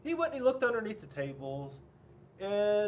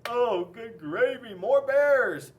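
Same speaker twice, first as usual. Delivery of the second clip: loud, raised exclamation of exasperation; hammed-up exasperation, building louder; exasperated author; 3 semitones higher, 7 dB louder, much slower than usual. A narrator's reading. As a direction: throw up your hands in disbelief. Author exasperated by the yelled demand.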